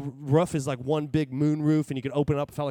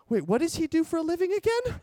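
dawning panic; 10 semitones higher than usual. Retold or imitated. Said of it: "And I start to panic".

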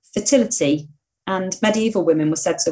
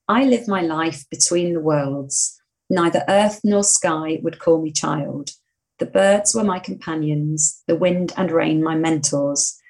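poem reading. Acted. Reads a riddle aloud.

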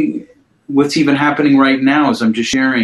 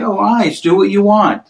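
gentle self-talk; 6 semitones higher than usual. Shown as a demonstration. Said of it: "And then I just invite it in and say".

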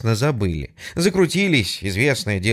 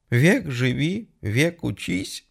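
sobbing; 4 semitones higher, slower than usual. Acted. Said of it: "всхлипнула трубка".

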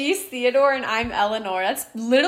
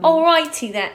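badly faked British accent; attempted British accent; 3 semitones higher than usual. Trying out accents for a co-host, shaky British accent attempt. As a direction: have a clumsy go at British. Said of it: "We did British a little".

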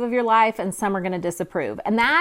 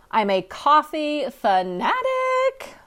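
lilting sing-song, slower; 5 semitones higher, slower than usual. Shown as a demonstration. Host tells listeners how coffee fanatic is said, in sing-song. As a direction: let the words bounce up and down. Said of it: "say that with a little sing-song in your voice".

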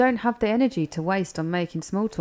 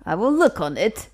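Gypsy Tears voice; 3 semitones higher, 6 dB louder than usual. Acted. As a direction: keep up the silly fortune-teller act. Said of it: "Please do Gypsy Tears again".

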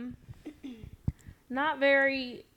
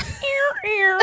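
robot error noise; 6 dB louder than usual. Retold or imitated. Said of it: "They're gonna be like".

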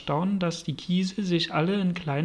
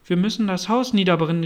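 brisk, louder call; fast, raised-voice declaration; 5 dB louder, faster than usual. Acted. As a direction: call it out quickly to the group. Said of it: "rief das Kaninchen".

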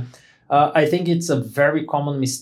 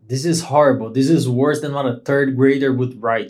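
Neha's harsh verdict; 3 semitones lower than usual. Retold or imitated. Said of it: "Neha looked at it and she said".

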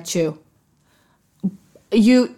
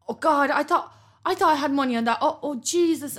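slightly raised, flustered excuse; imitating embarrassment; 5 semitones higher than usual. Customer at the till with a declined card, mock embarrassment. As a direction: mimic an embarrassed customer explaining themselves. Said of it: "they get so embarrassed".

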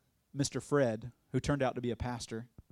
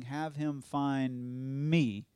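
slow drawn out; much slower than usual. Retold or imitated. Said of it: "about the time I finish saying".

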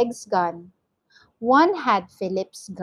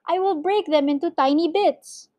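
earnest promise; 8 semitones higher than usual. A narrator's reading. Mister Gregg promises under threat.

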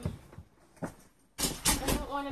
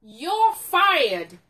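loud mock Trump; Trump catchphrase; 4 semitones higher, 12 dB louder than usual. Partner quoting Trump at the end of the book, loud mock Trump. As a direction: bark it like a showman boss.

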